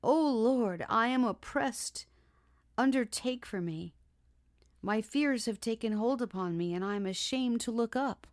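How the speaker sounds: loud, high, desperate prayer; crying out to God. Acted. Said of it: "She cried out".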